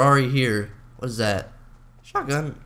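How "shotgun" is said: voice crack. Real, not acted. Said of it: "Oh, another voice crack".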